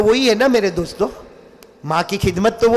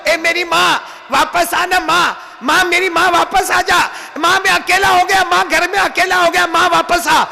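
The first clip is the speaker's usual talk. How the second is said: pleading lament; 7 semitones higher than usual. A narrator's reading. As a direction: beg the mother to come back. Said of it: "पीछे चल के क्या बोलते".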